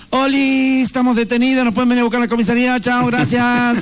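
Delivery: lightly voiced teen, cheerful about being arrested; same breezy teen tone. Kids casually asking parents to pick them up from jail. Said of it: "con ese mismo tono de voz".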